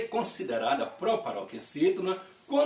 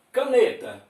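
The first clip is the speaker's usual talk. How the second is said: Caneta with ne high and loud; stress on penultimate syllable; 6 semitones higher, 5 dB louder than usual. Shown as a demonstration. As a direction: punch the middle of Caneta. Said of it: "pronunciada com mais intensidade". (Caneta com força na sílaba ne)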